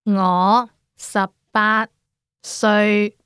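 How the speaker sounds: phrase said slowly with a pause before 歲; slow careful demo for learners to copy; unhurried teacher model of the phrase. Shown as a demonstration. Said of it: "Again, slowly".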